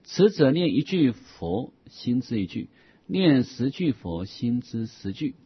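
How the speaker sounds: put-on measured recitation of an old Buddhist text; formal text recitation. Reads a classical Buddhist text aloud.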